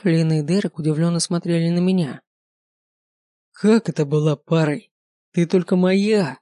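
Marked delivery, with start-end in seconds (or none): 3.5-6.4 roared. Acted. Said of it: "взревел он".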